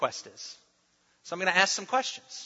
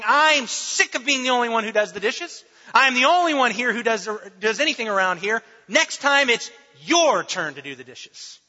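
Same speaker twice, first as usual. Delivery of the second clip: mock hollering spouse; 3 semitones higher, 4 dB louder than usual. Spouse to partner reading, mock angry hollering. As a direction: play the fed-up spouse venting about chores. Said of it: "your spouse starts hollering".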